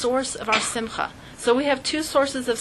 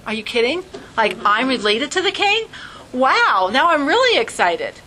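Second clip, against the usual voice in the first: excited; 3 semitones higher, 4 dB louder than usual. Retold or imitated. Learning relation to king.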